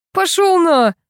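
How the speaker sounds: high, yelled dismissal; explosive high-pitched retort; angry outburst. A narrator's reading. Angry husband dismisses a threat.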